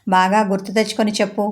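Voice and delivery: bullying demand. Acted. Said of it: "దబాయించి అడిగాడు".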